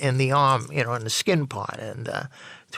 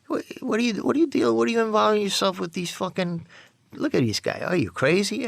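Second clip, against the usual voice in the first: scolding outburst; 8 semitones higher than usual. Retold or imitated. Friend scolds him in car.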